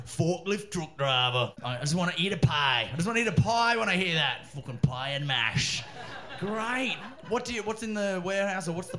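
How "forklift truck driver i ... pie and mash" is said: hammed-up northern English, Cheshire lad; mock Cheshire accent. Comic relishes the lad's job, mock Cheshire accent. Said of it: "in that accent, it's perfect".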